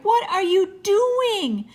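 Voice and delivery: very high, loud, slow disbelief; shocked cry. A narrator's reading. Jessie sees the half-shorn dog, aghast cry. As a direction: stretch it out in high-pitched astonishment. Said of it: "she cried".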